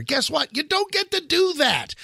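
high, insistent rebuttal; emphatic. Real, not acted. Host scolding the listeners, high and insistent. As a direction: lay down the rule, pitched high.

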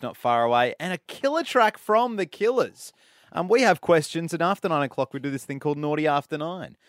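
lively radio link between songs; radio announcer. Real, not acted. Radio host telling listeners what's coming up, upbeat announcer delivery. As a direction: punch up the show and track names.

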